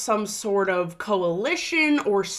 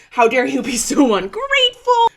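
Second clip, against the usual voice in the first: louder imitated scolding, a bit higher; mock outrage; 5 semitones higher, 8 dB louder than usual. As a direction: scold him like an offended official. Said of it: "Vance is like".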